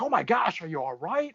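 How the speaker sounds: startled high-pitched worry, easing into the question; shaken woman. Retold or imitated. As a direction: imitate a rattled onlooker checking on you. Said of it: "she's, like, shaken up".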